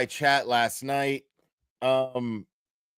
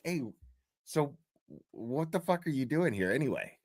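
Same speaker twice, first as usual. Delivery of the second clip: mock casual ask; 7 dB quieter than usual. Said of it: "I asked him just like that".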